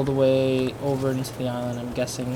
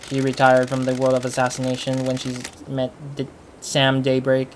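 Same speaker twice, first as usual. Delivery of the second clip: deliberate monotone character-bio read. Real, not acted. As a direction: read it out in a level monotone, measured pace. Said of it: "I'm reading monotone-wise".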